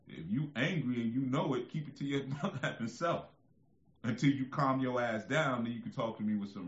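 put-on rewrite the kids' song as a stern warning; mock song rewrite. Shown as a demonstration. Father rewriting the children's song, loud and mocking. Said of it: "that's dangerous".

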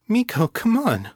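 high, anxious coaxing; shaking voice. A narrator's reading. Kate coaxing the growling dog, voice shaking. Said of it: "Her voice was shaking now".

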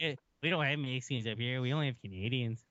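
put-on teasing Minnesotan accent; hammed-up upper-Midwest Minnesotan accent; mock Minnesotan accent. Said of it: "You making fun of my accent already?".

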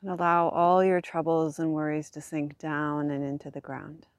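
calm voice easing tension away; soft spa whisper. Acted. Guides body relaxation on back.

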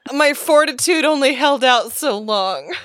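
crying with laughter; barely holding it together; laughing through tears. Real, not acted. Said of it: "Abby literally has tears in her eyes".

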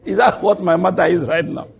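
mock retort on a laugh; amused retort. Woman answering the man's threat, laughing retort. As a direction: toss it back loudly, amused.

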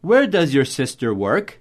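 teacher demo with a lift on "work"; English question intonation. Shown as a demonstration. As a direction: model the question tune from "Where" down and up. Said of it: "Essa entonação que a gente usa em inglês".

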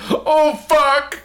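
high, mock-weepy "oh fuck"; high-pitched mocking sob-voice; mocking Kevin Smith. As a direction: squeak it out like a crybaby fan. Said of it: "And he just goes".

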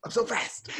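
high giddy stoner voice; spaced-out stoner bragging. Pretend. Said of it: "Man, I'm so baked right now".

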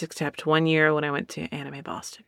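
hushed aside whisper. Real, not acted. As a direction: whisper it as a secret.

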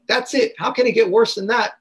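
high-pitched incredulous protest; acted disbelief. Asking how the memory could get any worse, incredulous.

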